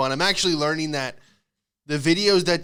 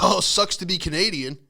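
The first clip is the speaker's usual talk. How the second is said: mocking kid's gloat; 4 semitones higher than usual. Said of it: "I would laugh and be like".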